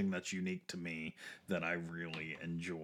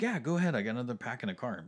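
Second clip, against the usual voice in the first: excited; 5 semitones higher, 3 dB louder, much faster than usual. Retold or imitated. Retold friend insisting.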